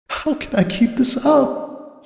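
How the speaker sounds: sag against the wall and ask it hopelessly; despairing Cupcake. A narrator's reading. Cupcake slumped in the hall, slow weary despair.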